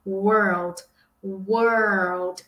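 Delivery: world with the tongue curled back through the r and l, slowly; the correct world with the curled r. Shown as a demonstration. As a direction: roll the tongue hard on world. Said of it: "Eu dou essa enrolada".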